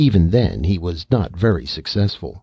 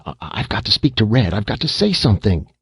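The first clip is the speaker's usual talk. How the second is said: near hysteria; 4 semitones higher than usual. Acted. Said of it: "almost hysteria".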